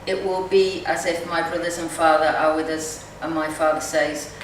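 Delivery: measured, gentle poetry reading voice; poem reading. Acted. Poet reading her poem to the group, measured and gentle. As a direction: read each line as a poem, unhurried.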